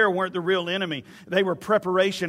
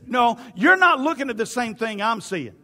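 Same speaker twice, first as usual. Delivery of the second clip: David's rebuttal; 3 semitones higher, 4 dB louder than usual. Acted. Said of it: "David looks at him and says".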